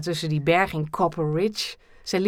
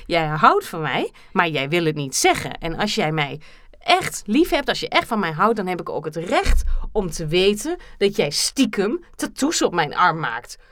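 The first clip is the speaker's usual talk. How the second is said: mock angry. Role-play quarrel, calling him liar.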